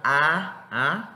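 drawn-out "A", like ah; stretched ah sound on "A"; long A sound. Shown as a demonstration. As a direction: hold "A" long. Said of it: "Pero más larga".

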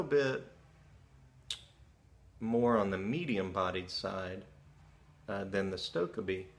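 talking around pipe stem; pipe in mouth. Real, not acted. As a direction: lips clamped on pipe. Seen 1: Pipe held in hand first, then stem in mouth from 3.3s.

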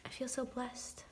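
breathless whispered oh my gosh; hushed, starstruck whisper; awed whisper. Real, not acted. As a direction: whisper it in disbelief. Whispering over the photo.

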